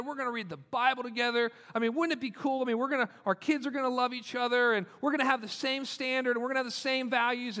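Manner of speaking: voicing an eager dreamer; eager planning. Voicing hopeful couple's marriage plans.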